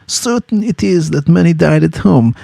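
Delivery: "Certain it is that many died at home." with weight on "Certain"; inverted word order. Shown as a demonstration. Teacher quoting the novel's line to the class, stressing "Certain". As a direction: lean on "Certain" at the start. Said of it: "Here we have hyperbaton".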